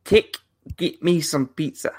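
a hint of a New Zealand accent. Shown as a demonstration. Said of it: "No, that's terrible".

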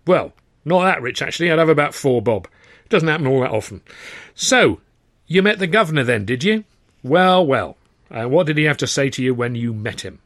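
testy man easing into wry questioning; harassed manager, calming. Acted. Manager questions young hopeful about the governor, wry and mildly testy.

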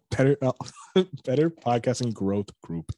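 "Better Podcasting Growth Group" said again, laughing, with "Better" lifted; laughing repeat. Shown as a demonstration. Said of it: "say one more time for me".

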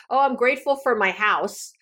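a rote thank-you with no feeling behind it; detached gratitude. Shown as a demonstration. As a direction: say it as an empty habit, quickly. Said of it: "I don't feel anything right now when I say that".

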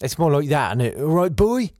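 quick try at a Norfolk accent. Shown as a demonstration. Comedian showing how they talk in Norwich, Norfolk accent. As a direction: show how Norfolk folk really sound. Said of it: "Norfolk accent".

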